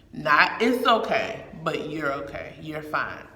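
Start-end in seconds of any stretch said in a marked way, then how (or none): 0.6-1.4 higher, louder mock consoling line; breezy brush-off comfort. Rejected way of comforting someone. 1.9-3.2 calm, settled comfort; reassuring. Acted. Models the right way to reassure.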